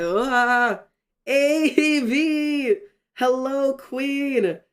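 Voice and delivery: high, loud cry of delight; thrilled greeting. Real, not acted. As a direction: greet a friend who just arrived, overjoyed.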